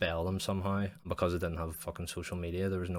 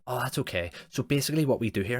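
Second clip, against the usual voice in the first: higher, louder cheery sales pitch; mock salesman; 6 semitones higher, 6 dB louder than usual. Imitating a door-to-door electric salesman, chirpy. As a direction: breeze past the refusal.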